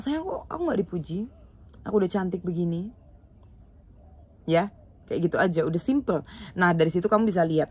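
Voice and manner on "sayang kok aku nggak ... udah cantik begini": just say it sweetly and straight; the right way: a light, open, teasing request to your partner; direct ask. Shown as a demonstration. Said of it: "Kamu langsung aja bilang".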